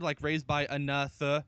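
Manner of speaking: "another" split to expose "the"; "another" pulled apart, with "the" sounded as its own word; THE inside another. Shown as a demonstration. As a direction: break "another" into a-no-THE-er. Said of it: "the word the as in if the isn't another word".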